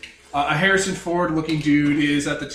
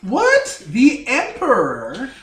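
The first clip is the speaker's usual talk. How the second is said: high, loud, stunned disbelief; shocked; 9 semitones higher, 6 dB louder, much slower than usual. Real, not acted. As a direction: blurt it out in shock. Shocked reaction to reveal.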